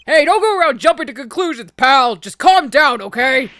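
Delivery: calm everybody down, pal; gruff detective voice. Acted. Voicing Gumshoe.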